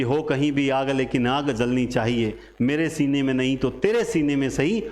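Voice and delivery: lightly recited Hindi verse; poem recitation. Acted. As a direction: declaim it like a stage poet.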